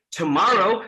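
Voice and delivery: "tomorrow" with an airy American T and rolled-back R; American accent. Shown as a demonstration. Trainer contrasts for class, "tomorrow" in an American accent. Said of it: "keep doing the same thing".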